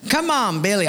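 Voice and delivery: high-pitched coaxing call; playful acted pleading. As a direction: urge a reluctant friend up. Crowd coaxes Billy.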